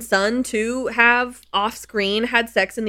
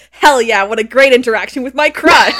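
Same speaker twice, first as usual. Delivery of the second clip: laughing through a louder triumphant quote; laughing mock cheer; 7 dB louder than usual. Retelling a girl celebrating her crush, laughing. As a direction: cheer it while cracking up. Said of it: "she's like".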